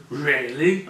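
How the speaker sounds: sarcastic questioning "Really?"; imitated sarcasm. Someone teasing him with a question, imitated sarcasm. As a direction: put on a friend's sarcastic disbelief. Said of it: "I was being sarcastic".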